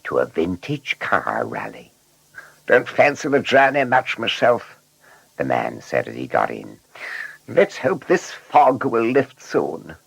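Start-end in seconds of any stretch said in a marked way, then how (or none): 2.7-4.8 higher-pitched character voice for a passenger; grumbling passenger. A narrator's reading. Man tells his driver he doesn't fancy the journey, grumbling. 7.5-9.9 high, slow passenger voice; passenger's voice. A narrator's reading. Passenger hoping the fog will lift, doubtful. Passenger speaks in narrated story.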